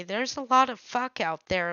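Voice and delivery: "fuck" said for fog, short u and a hard k; saying fog as fuck. Retold or imitated. Coworker mispronouncing fog as "fuck", mild imitation. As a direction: mimic the coworker who says "fuck" for "fog". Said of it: "he'd say".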